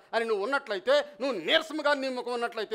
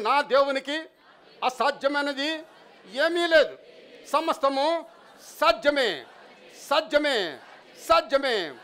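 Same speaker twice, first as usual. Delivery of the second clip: louder and higher, a proclamation building to ఏమీ లేదు; rousing declaration; 3 semitones higher, 3 dB louder than usual. Shown as a demonstration. Preacher leading the congregation to declare nothing is impossible, loud and rousing. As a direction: lead the crowd in a triumphant shout of faith. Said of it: "చెప్పండి".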